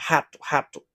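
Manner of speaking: "rato" with an H-like R at the start, said as hatu; "rato" sounded hatu, throaty start; Portuguese word. Shown as a demonstration. Teacher shows the R at the start of a word, H sound. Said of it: "li va gen son R".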